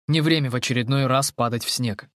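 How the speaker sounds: ordinary delivery, nothing marked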